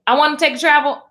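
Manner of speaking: lifted pitch, mock-insistent wanting; mock eager wish. Acting out flip-flop energy, mock eager wish. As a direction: punch it up as the wanting side.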